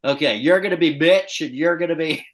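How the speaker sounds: bright, loud host setting up the fight; radio host. Retold or imitated. Radio host to callers: loud hyped announcer. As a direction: hype the callers into a fake fight. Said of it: "they're like".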